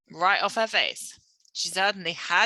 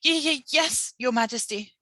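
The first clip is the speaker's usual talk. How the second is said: nervous stammer; 6 semitones higher than usual. A narrator's reading. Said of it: "Sophie murmured".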